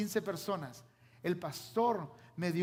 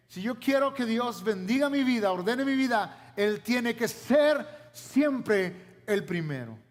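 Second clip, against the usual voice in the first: rising preaching; 4 dB louder than usual. Real, not acted. Preacher building to a climax.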